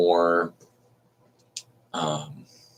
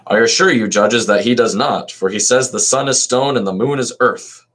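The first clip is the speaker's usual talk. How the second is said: higher and louder, declaimed as Socrates; more dramatic reading; 5 semitones higher, 4 dB louder than usual. Shown as a demonstration. Socrates protesting to the judges, louder declaimed reading. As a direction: give Socrates' line more force, speaking up to the judges. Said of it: "so maybe I'll try to".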